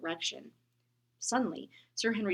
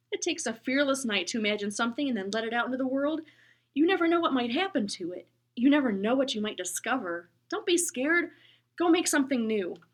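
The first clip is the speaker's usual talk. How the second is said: loud, hearty encouragement; booming bus driver; 3 semitones higher, 8 dB louder than usual. Acted. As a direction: boom warmly at the boy.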